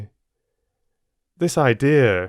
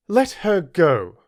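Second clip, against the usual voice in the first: curt order; 8 semitones higher, 3 dB louder, slower than usual. Acted. Mrs Reed orders.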